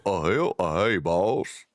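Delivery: slow drawn-out henchman greeting with a hint of southern accent; dumb henchman, southern-tinged. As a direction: dim lackey, slow and a bit country. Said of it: "But not, like, a southern ac".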